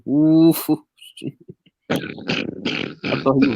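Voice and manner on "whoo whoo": mock heavy huffing whoo; drawn-out imitated blowing whoo. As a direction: huff it out like an angry big man. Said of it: "Shaq was".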